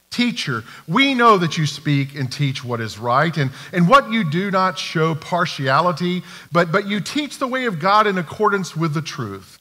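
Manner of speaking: mildly syrupy, mock-respectful; butter him up with a sneer underneath; condescending flattery. Pharisees flattering Jesus before their trap, condescending. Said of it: "listen to the tone of this, because it's almost condescending".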